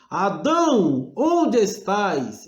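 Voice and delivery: slow, loud, rising call of God; God's questioning call. Shown as a demonstration. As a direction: call out "Adão" slowly, like God searching. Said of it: "ora você pergunta". (Deus chamando Adão, lento e forte)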